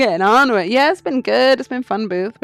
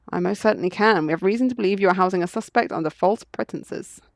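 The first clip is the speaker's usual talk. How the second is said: officious legal warning, lightly voiced; bluffing lawyer. Lawyer bluffing a jailer into compliance, lightly voiced officious manner. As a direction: lay down the law with mock authority.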